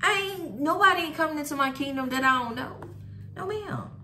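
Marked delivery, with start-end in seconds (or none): 0.0-2.1 God's voice. Retold or imitated. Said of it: "He gonna say".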